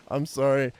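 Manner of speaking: real laughter breaking up the words; laughing. Real, not acted. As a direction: talk through a laughing fit. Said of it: "I'm laughing".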